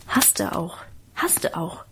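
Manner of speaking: low whispered aside; secretive whisper from the next room. A narrator's reading. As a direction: whisper it under your breath. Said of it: "flüsterte ich im Nebenzimmer dazu".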